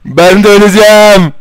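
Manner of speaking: high loud mock dying wail; mock panic. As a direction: ham up the doom. Dramatic about dying.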